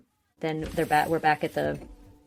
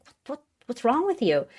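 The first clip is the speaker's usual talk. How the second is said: mock Kanan voice; 9 semitones higher than usual. Kanan quoted in recap.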